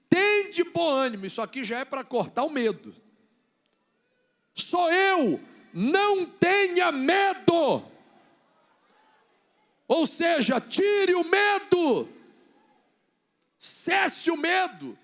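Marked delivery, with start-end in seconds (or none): 0.1-1.3 loud, high, slow preaching call; emphatic proclamation. Acted. Preacher quoting Jesus to frightened disciples, loud proclamation. 4.5-7.9 high, loud, drawn-out shout; commanding proclamation. Acted. Preacher voicing Jesus calming the disciples, slow commanding shout. 9.9-15.0 high, loud, stretched-out preaching cry; commanding shout. Real, not acted. Preacher ordering the congregation's fear to cease, drawn-out shout.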